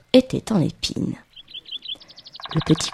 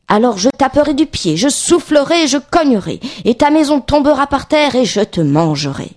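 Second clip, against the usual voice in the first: higher-pitched storybook threat, mounting in a list; threatening wolf; 5 semitones higher, 4 dB louder than usual. Acted. Wolf warns the pig he will blow the house down, threatening. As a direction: threaten as a lightly voiced wolf.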